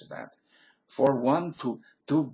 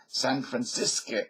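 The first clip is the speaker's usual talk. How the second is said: Yiddish pronunciation; slower than usual. Shown as a demonstration. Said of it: "in Yiddish that you pronounce".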